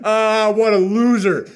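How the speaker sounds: slow, laughing jeer; mocking laugh. Viewer mocking Lance with a slow laughing jeer. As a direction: point and laugh at him.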